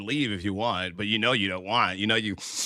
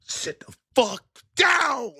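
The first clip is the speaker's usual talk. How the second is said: mock high yell; slower than usual. Mock command in put-on voice.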